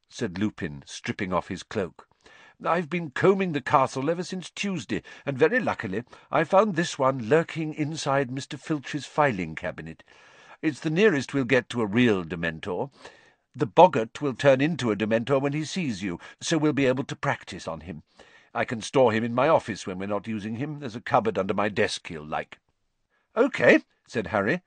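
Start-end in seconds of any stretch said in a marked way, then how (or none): 2.7-22.6 lightly voiced Lupin. 23.4-23.8 forced casual. A narrator's reading. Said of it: "trying to sound as though he wasn't apprehensive".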